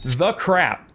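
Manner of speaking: high-pitched, incredulous question; baffled and put out; exasperated disbelief. Real, not acted. Player baffled by his party.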